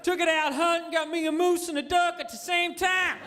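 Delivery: redneck. Acted. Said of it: "You draft a redneck".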